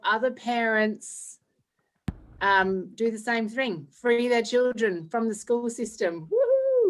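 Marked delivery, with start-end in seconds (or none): 6.3-6.9 excited cheer. Real, not acted. Cheering her own intro.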